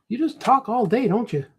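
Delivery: high-pitched mock heckler voice; put-on high nagging voice. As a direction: needle him in a put-on high voice. Imagined heckler scolds the artist.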